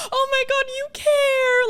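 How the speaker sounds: high, loud melodramatic swoon; hammed-up adoring squeal; touched gushing. Retelling thanks to a friend shielding the speaker, gushing.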